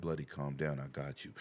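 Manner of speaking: low, soft reassurance; acted calm, low and hushed; calming him down. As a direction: talk down a panicking teammate. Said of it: "I said".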